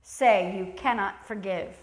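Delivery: slow, stern rebuke; harsh preacher's challenge. Acted. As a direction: scold the church hard. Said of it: "I'm gonna be harsh and say".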